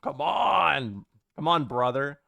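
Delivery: lightly voiced wrestler growl on brother; a hint of a hyped wrestling promo; Hulk Hogan. Streamer riffing to chat in a light Hulk Hogan voice. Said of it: "a little Hulk Hogan in my dialect".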